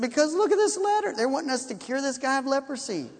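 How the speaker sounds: mock flustered king; alarmed king. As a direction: pitch jumps up on "Because", then settles. King shows Elijah the letter.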